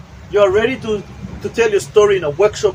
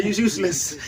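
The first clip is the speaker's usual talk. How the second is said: laughing; 3 semitones higher than usual. Acted. Laughing in acted scene.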